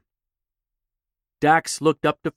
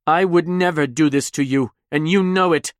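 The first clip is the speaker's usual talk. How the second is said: desperate plea; 4 semitones higher, 4 dB louder than usual. Acted. Nemi pleading, upset.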